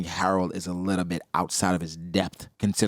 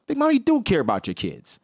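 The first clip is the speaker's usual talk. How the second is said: mock touched; 12 semitones higher than usual. His own fooled reaction.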